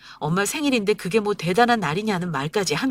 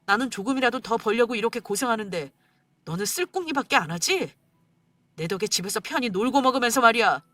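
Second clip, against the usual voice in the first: scornful angry rant; husband berating wife over money; bitter berating husband; 4 semitones higher than usual. Acted. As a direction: belittle her.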